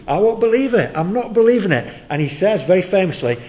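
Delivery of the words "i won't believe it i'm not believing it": loud, high defiant refusal; stubborn refusal. Acted. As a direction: dig in and refuse, loudly. Thomas refusing the disciples.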